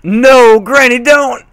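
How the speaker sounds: high, loud panicked cry; frantic shout. A narrator's reading. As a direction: stop her before it's too late. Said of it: "Applejack shouted".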